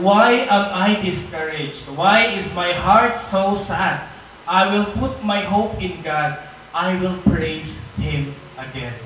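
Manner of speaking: slow, deliberate Bible reading; solemn, slow reading of a psalm; scripture reading. Acted. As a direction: read the verse slowly, letting each line land. Reads Psalm 42:5 aloud.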